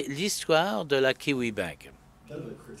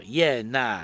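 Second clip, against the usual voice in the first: Iena said as i-ena, a bit more spelled out in a Kiwi accent; slower, clearer Kiwi accent; Kiwi yeah nah. Shown as a demonstration. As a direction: yeah nah, easier to make out. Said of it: "Est-ce que vous savez ce que ça veut dire?".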